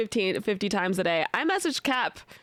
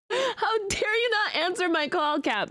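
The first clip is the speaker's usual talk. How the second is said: mock outrage; 6 semitones higher than usual. Mock scolding Cap, repeated.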